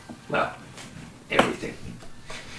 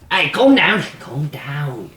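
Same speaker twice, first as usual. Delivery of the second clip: much higher, louder hey calm down; high crone calming; 11 semitones higher, 6 dB louder, slower than usual. Acted. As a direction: shout him down, then ease off. Crone soothes angry PC.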